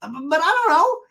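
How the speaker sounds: very high, loud mock bafflement; hammed-up squeak, rising at the end; Vicky. Vicky answering Heather, high mock confusion. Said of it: "And Vicky goes".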